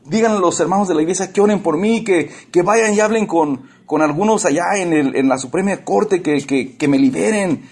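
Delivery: a hint of whiny self-pity, half-mocking; mock whiny plea. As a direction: plead like a self-pitying prisoner begging the brothers. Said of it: "No era un llorón que venía a quejarse".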